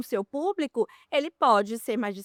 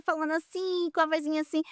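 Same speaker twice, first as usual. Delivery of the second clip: put-on a light demo of a small child's voice, higher; childish little voice; 5 semitones higher, faster than usual. Shown as a demonstration. Showing how a grown-up sounds using a childish voice, higher. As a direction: lightly put on a kid's voice to show it. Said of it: "aquela vozinha de criancinha".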